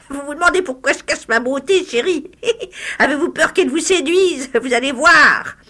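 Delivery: high, loud mocking crone; old hag voice. The disfigured hag mocks the lawyer, high crone voice. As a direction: taunt him like a cackling witch.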